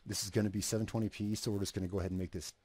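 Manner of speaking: talking around a cigarette; words round a cigarette between lips; cigarette in mouth. Real, not acted. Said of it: "I got a cigarette in my mouth".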